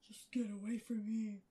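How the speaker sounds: slow, loud angry hiss. A narrator's reading. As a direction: hiss it as a threat. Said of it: "he hissed".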